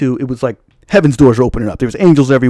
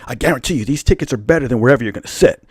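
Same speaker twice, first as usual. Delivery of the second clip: quick, earnest imitation of a ticket guy; serious insistence; 3 semitones lower, faster than usual. Stranger pushes free tickets on him, serious and quick. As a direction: press the offer in a hurry, dead serious. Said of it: "He's all serious".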